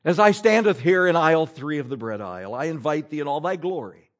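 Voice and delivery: pompous old English prayer, lightly hammed; lightly mock a pompous prayer in old English; mock King James prayer. Preacher mocking a pompous bread-aisle prayer, in lightly hammed King James English. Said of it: "here's how your prayer goes".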